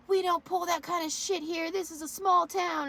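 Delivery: high, loud imitation of a telling-off; mock angry scolding. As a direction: act out a woman laying down the law. Retold scolding before a body slam.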